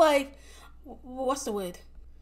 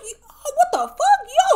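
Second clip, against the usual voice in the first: high, laughing mock reply; laughing disbelief; 12 semitones higher, 4 dB louder, slower than usual. Talking back to white people, laughing in high disbelief. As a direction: crack up while asking it.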